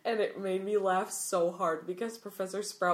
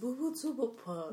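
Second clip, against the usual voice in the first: silly word voice; 4 semitones higher than usual. Pretend. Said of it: "I love how you say it back".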